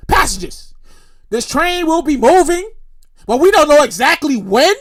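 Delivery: lightly voiced conductor addressing passengers; imitated PA announcement. Conductor on PA to passengers, mock-official announcement. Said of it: "on the P A system and he says".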